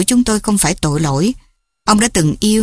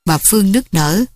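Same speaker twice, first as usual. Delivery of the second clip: ordinary delivery, nothing marked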